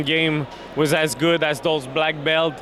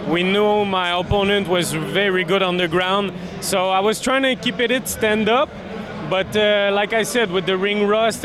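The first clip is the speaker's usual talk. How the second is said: English with a Québécois accent; French Canadian speaking English; Quebec French accent. Real, not acted. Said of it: "my, uh, Québécois accent".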